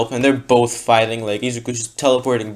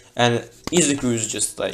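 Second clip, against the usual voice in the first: ordinary delivery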